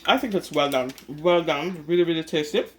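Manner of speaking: talking with a mouth full of food; chewing while saying it. Real, not acted. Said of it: "Sorry, guys, I have food in my mouth".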